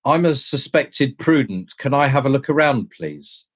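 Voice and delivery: mildly anxious, polite, dropping off on please; worried student. Retold or imitated. Prospective student nervously asks the college porters, worried. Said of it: "got herself so worried, poor little thing".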